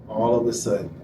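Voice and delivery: normal talking voice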